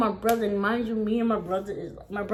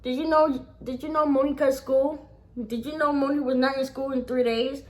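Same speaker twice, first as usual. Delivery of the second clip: higher-pitched, insistent tattletale; mock-informing, pitched up; tattling sister; 4 semitones higher than usual. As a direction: imitate a sister reporting the offence. Sister tattling to the brother, retold.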